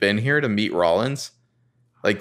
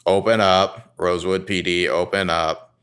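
cop shouting; 2 semitones lower than usual. Retold or imitated. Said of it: "And we hear".

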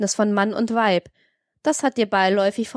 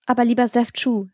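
put-on timid, pleading young woman, a little higher; anxious plea; 4 semitones higher than usual. A narrator's reading. Frightened wife soothing her angry husband, timidly. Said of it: "sprach sie ängstlich".

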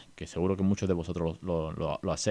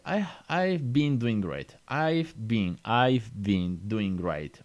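slow model answer; much slower than usual. Shown as a demonstration. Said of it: "Y dice".

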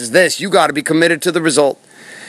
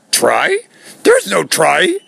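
hammed-up bad character voice, pitched up at the end; Yoda; 3 semitones higher, much slower than usual. Motivational speaker quotes a film sage, in a badly faked Yoda voice. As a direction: do a terrible accent, slow on the last words. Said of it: "That was the worst accent in the whole wide world for Yoda".

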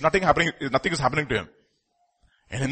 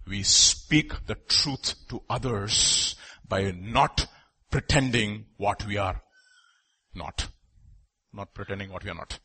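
soft, slow emphasis; 6 semitones lower, 6 dB quieter, slower than usual. Real, not acted. Sermon softens to a point.

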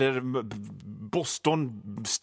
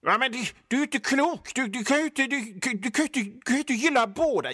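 high, sputtering mock protest; imitating a fan who can't accept it; exasperated objector; 8 semitones higher than usual. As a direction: stammer in outraged disbelief.

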